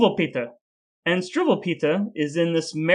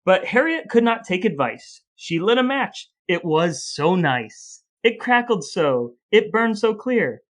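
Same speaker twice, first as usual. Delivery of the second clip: rising, melodramatic verse, pitched up; dramatic verse reading; 2 semitones higher than usual. Acted. Reading Harriet's fiery fate to a co-host, building dramatically. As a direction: build the horror line by line. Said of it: "it goes on to say".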